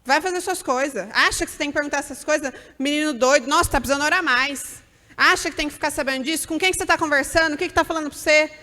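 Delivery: put-on outraged mother telling off a curious child; scandalized scolding. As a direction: shut down the child's question. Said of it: "Aí você fala".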